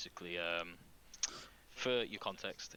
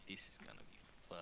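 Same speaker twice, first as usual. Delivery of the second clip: menacing whisper; 2 semitones lower, 13 dB quieter, faster than usual. Acted. Villain threatens the party.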